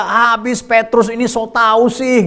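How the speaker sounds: slow, drawn-out mocking quote; mock criticism. Pastors scoffing at Peter as a know-it-all, mock disapproval. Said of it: "seringkali pendeta-pendeta, hamba-hamba Tuhan berkata".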